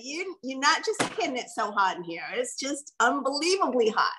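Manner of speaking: match their hype, lightly; mirrored excitement. Shown as a demonstration. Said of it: "I'm gonna mirror their".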